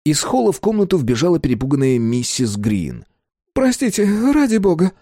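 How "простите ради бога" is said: high, apologetic rush; frightened caretaker apologising, flustered; flustered nurse. Acted.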